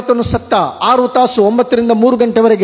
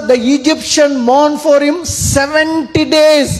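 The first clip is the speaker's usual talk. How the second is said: slow scripture reading; 6 semitones higher, much slower than usual. Acted. Preacher reads verse in English.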